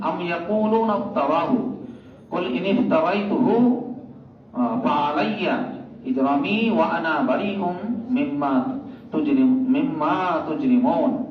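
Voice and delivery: measured Quran verse reading; Quran recitation. Acted. Preacher quoting scripture to the congregation, measured recitation. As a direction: recite the verse with drawn-out vowels.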